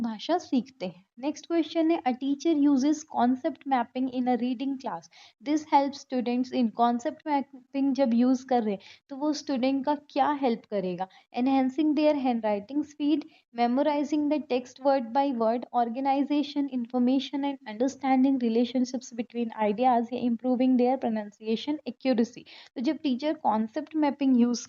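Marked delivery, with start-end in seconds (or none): 2.0-7.9 very slow, deliberate reading aloud; slow question reading. Acted. Teacher reading an exam question to students, very slowly. 11.4-22.4 very slow, deliberate reading aloud; slow question reading. Acted. Teacher reading an exam question to students, very slowly. Reads answer options.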